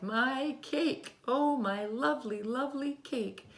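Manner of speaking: high, loud wail over the ruined cake; mother's mock despair, cried out; dismayed cry. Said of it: "she cried".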